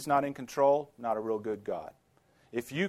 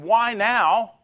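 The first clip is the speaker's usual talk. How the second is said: louder, higher demanding question; pleading why now; 8 semitones higher, 8 dB louder than usual. Retold or imitated. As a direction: press God for an answer. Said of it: "We're either asking him".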